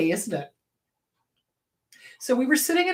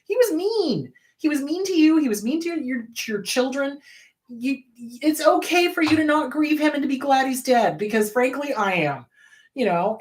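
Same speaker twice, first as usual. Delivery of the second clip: firm retold outburst; 5 semitones higher than usual. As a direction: tell your mom to stop feeling guilty. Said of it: "And I was like".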